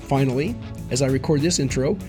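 hoarse, squeaky voice from a cold; gravelly voice. Real, not acted. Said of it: "I apologize for the squeaky and or gravelly voice".

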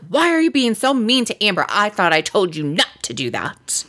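imitating a bossy little girl telling off an adult; lightly indignant, starting high and dropping; mock scolding. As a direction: scold like a small child in charge. Retold child scolding uncle.

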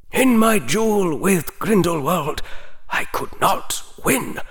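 put-on an old headmaster recalling a hard fight; old wizard Dumbledore. A narrator's reading. Dumbledore telling Harry about his duel, aged and grave.

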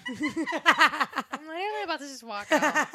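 slow, laughing as she talks. Real, not acted. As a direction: laugh it out, teasing. Laughing at mushy friend.

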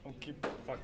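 hushed, strained half-whisper; whisper yelling. Real, not acted. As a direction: whisper it but with force. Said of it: "Talk like a sane human being".

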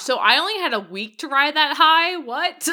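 loud, high, astonished question; incredulous outburst. Real, not acted. Fan learning how short the high was, incredulous outburst. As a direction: blurt it out in disbelief. Real shock at corrected timeline.

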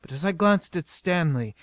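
plain reading voice

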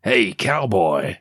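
slow, drawn-out mock call; mock shout. Reporter hails the man on the beach, mock shout. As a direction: call out half-heartedly, stretching the words. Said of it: "She shouts".

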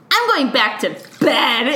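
a mild mock bitchy dismissal. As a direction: toss it off like a snotty teen, lightly. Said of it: "in this real bitchy way".

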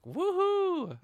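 high, loud cheering whoop; long, soaring joyful holler; excited whoop. Retold or imitated. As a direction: whoop like you're cheering on a car chase. Acting out cheer at car chase.

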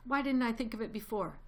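high, loud eureka shout; father fox shouting his plan to the family; excited shout. A narrator's reading. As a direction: burst out with the sudden idea. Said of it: "He jumped up and shouted".

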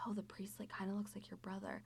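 hushed whisper in church; retold whisper. Whispering a joke to her husband during mass, hushed. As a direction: whisper it so only Brendan hears. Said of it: "like, quietly".

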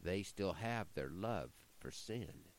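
measured, rhythmic poem reading; poem recitation. Acted. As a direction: recite it like a cowboy poet.

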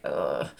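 low, weary "ugh"; exasperated groan. Retold or imitated. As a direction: groan in frustration, low and soft. Reacting to being fobbed off.

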